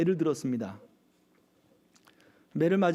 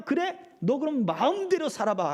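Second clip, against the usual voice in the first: mocking God; 7 semitones higher than usual. God letting people go.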